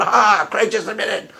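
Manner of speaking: mock a gloating atheist, drawn out; gloating atheist imitation. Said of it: "that's my atheist imitation".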